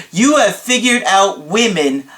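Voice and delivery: theatrical amazement, drawing out the last word; dramatic client impression. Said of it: "I can't do his voice that great".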